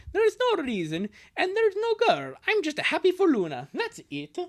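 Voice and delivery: high protest, falling at the end; defensive younger brother. Acted. Brother denying there is a girl, defensive. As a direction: play a brother denying a crush. Voices comic dialogue.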